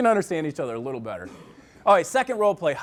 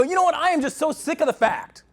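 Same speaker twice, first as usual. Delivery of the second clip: mock angry husband; 11 semitones higher, 3 dB louder than usual. Husband complaining angrily to wife.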